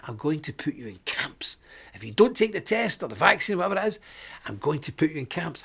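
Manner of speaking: hushed, sinister imitation of a ruler threatening; mock prime minister. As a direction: whisper the threat like a mad villain. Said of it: "She's cackling ... saying".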